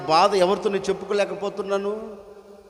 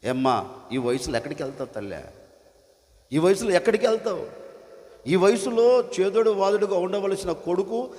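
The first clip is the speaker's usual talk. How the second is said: retold scolding, higher and faster; son-like preacher scolding the mother, higher; mock scolding; 4 semitones higher than usual. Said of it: "తిట్టానండి నేను".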